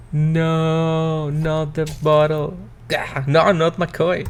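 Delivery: dying plea. Acted. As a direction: beg for your life as it slips away. Old man dying, pleading.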